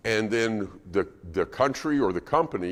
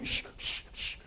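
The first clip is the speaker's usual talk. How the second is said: whispered hushing; shushing mom; 9 dB quieter than usual. Retold or imitated. Embarrassed mom hushing her screaming child, whispered. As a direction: hush frantically under your breath.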